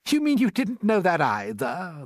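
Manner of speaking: scornful. A narrator's reading. Centipede belittling James's ignorance, scornfully. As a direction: scoff in disbelief. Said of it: "the centipede said scornfully".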